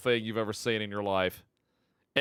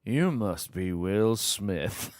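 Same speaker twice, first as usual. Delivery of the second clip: mock Dracula line; 5 semitones lower, much slower than usual. Reading the Dracula meme line.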